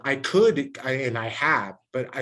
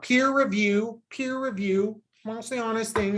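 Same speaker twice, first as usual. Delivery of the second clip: high, slow squawking parrot voice with "meh" bleats; 9 semitones higher than usual. Retold or imitated. Mocking people who repeat experts, high squawking parrot imitation. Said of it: "squawking parrots, dude. C N N parrots".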